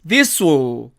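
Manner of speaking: "this will" run together as "dis-u"; contracted this'll. Shown as a demonstration. Teacher shortening this will, contracted. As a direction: blend "this will" with no clear L. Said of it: "줄이면".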